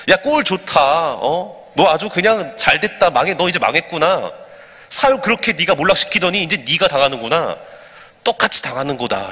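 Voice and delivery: lightly acted gloating taunt; jeering curse. Man gloating over the ruined king, mild mock jeering. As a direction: jeer at a fallen man, only mildly heated. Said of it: "엄청난 그런 막 저주를 하고 욕을 퍼붓는 거죠".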